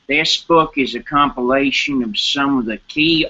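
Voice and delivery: attempted British accent, reading aloud; amateur British accent for an audition read. Shown as a demonstration. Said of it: "using your British accent".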